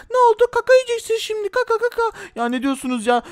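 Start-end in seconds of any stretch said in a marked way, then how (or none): 0.1-2.0 taunting bully. Pretend. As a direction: drag out the insult like a spoiled brat. Bully gloats.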